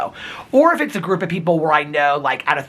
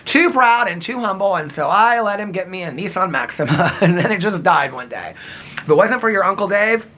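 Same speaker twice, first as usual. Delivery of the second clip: a touch of his mother's voice; imitating mom; 2 semitones higher than usual. Son imitates his mom about the car dying. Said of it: "This is how my mom would talk".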